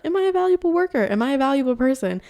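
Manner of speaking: high, quick worried questions; anxious self-questioning. Retold or imitated. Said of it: "in a shame spiral".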